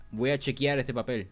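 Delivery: Voy a chequear este papel with an anglicized chequear; Puerto Rican Spanglish. Shown as a demonstration. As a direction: swap in the English-based chequear. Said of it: "what Puerto Ricans say is".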